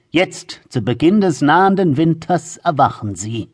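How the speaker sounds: grandmother spinning a scary tale; ominous old woman. Acted. Grandmother scaring the children. (unheilvolle alte Frau)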